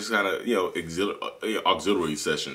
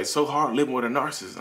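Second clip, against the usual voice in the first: higher-pitched mock complaint; imitating wife; 8 semitones higher than usual. Wife complaining about her husband, imitated in a high voice. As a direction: act out a wife's high-voiced lament. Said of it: "She called, she's like".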